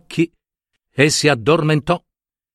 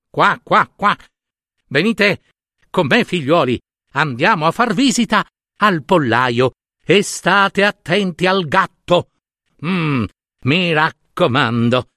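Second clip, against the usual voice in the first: mother duck calling; 3 semitones higher than usual. Acted. Mother duck calls her ducklings along.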